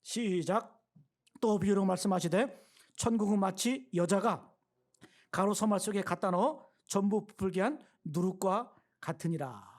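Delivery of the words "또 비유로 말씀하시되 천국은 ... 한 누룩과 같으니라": slow, louder scripture reading, read in unison; congregational reading. Real, not acted. Pastor leading the congregation through the verse, slow and loud. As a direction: read each word slowly and clearly together. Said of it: "같이 한번 읽습니다".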